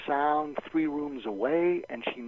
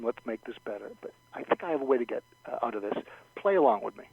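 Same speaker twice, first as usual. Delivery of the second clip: very calm; faster than usual. Shown as a demonstration. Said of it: "in a very calm".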